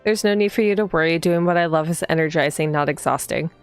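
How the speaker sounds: even, slightly low storytelling read; read-aloud narration. A narrator's reading. Player reading the heroine's morning greeting aloud, even narration. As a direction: read the game text evenly, unhurried.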